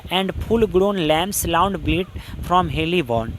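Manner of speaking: very slow, measured reading of verse; slow classroom recitation of a poem. Shown as a demonstration. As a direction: read each poetic word slowly and deliberately. Teacher recites poem lines.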